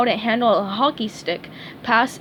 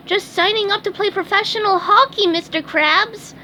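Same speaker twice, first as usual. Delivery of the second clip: beaming; 10 semitones higher than usual. A narrator's reading. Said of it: "SpongeBob beamed".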